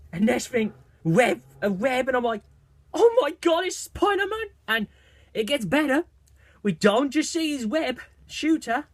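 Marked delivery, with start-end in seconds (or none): 2.9-4.5 excited fan scream. Retold or imitated. Fan reliving the trailer's Spider-Man reveal, high excited squeal. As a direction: blurt it like your hero just appeared. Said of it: "I was screaming my head".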